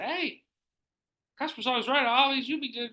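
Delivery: high-pitched sing-out; high, chirpy interjection; retold chiming in. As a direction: pipe up in a high voice. Retold own interjection to customer.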